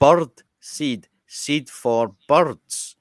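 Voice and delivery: loud, slow, word by word; explaining to non-English speaker. Retold or imitated. Customer to baffled shopkeeper, loud slow explaining. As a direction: spell it out slowly and forcefully. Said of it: "So I said".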